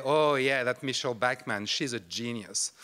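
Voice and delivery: dry sarcastic put-down. Shown as a demonstration. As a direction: feign agreement, then let the compliment sink. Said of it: "intense sarcasm".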